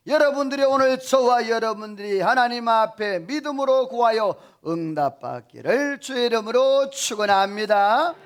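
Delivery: ringing sermon exhortation; fervent pulpit blessing. Acted. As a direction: proclaim the blessing over the congregation. Preaches a closing blessing.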